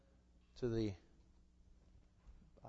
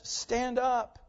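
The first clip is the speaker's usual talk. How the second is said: powerful command; 10 semitones higher, 4 dB louder than usual. Acted. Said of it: "that power in his voice".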